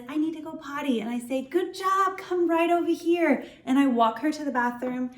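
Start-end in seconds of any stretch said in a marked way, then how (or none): 0.1-1.0 put-on light, higher child voice, a bit softer; teacher voicing a toddler asking for the potty, gently higher; little Susie. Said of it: "So little Susie says". 1.4-3.4 bright, much higher, encouraging teacher voice; cheerful reassurance. Shown as a demonstration. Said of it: "I'm gonna show you how I handle the situation".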